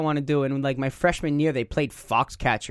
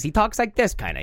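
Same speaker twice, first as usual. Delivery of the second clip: higher voice from the back of the throat; lightly voiced raccoon, placed back in the throat; your own voice pushed back into the throat; Rocket Raccoon; 6 semitones higher than usual. Shown as a demonstration. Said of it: "a little bit more from the back of my throat".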